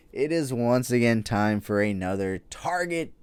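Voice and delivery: loud, hammed-up announcer hype building to a drawn-out cheer; sarcastic cheerleading; mock hype. Mock hype for a dreaded event.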